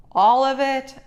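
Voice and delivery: high, loud amazed question; a little bear who can't believe it; surprised. A narrator's reading. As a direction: gasp it out in disbelief.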